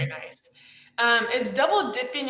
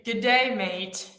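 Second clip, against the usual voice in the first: Australian accent; slower than usual. Shown as a demonstration. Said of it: "in an Australian accent".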